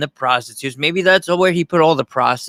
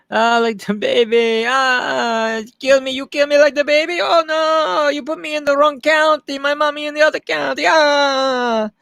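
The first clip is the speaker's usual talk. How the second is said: Hispanic maid voice; 13 semitones higher than usual. Retold or imitated. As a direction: wail like a hammed-up frightened maid. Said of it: "I gotta stop doing that".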